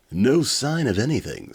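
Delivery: loud, high announcement; hammy dramatic reading. Acted. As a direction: call it out dramatically. Fury reports from the surface.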